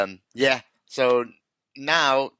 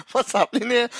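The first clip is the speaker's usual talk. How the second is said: laughing; 11 semitones higher than usual. Real, not acted. Laughing in disbelief.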